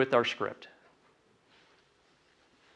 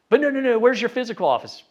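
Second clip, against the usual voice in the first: mock pushy client, pitched much higher and louder; insistent client; 9 semitones higher, 4 dB louder, faster than usual. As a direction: play the doubting buyer who won't let go. Client pressing about office.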